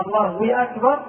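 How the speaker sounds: الله linked to أكبر by a w; inserted waw. Shown as a demonstration. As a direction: slip a wa in before أكبر. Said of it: "لو قال".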